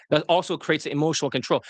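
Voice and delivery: usual speaking voice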